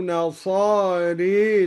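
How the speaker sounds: "نصاري" with the final alif leaned toward e, nasare; imala on nasara. Shown as a demonstration. Teacher recites "نصاري" with imala for the class. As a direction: tilt the last vowel of "نصاري" toward an ee sound. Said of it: "وأمال الألف بعد الراء".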